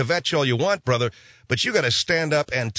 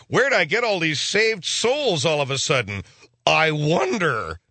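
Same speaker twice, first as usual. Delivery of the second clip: puzzled Saint Peter; 3 semitones higher, slower than usual. Acted. Saint Peter puzzles over all the saved souls, slow mock wonder. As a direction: wonder aloud slowly.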